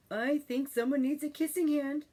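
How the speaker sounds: tender mother offering comfort; warm and inviting. A narrator's reading. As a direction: invite him in like a loving mother. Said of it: "in a voice that was warm and inviting".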